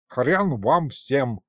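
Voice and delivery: медленно, глухо и упрямо; отрежь, как окончательный отказ; категоричный отказ. A narrator's reading. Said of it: "категорически донеслось из коробки". (призрак из коробки грубо отказывает всем, медленно и категорично)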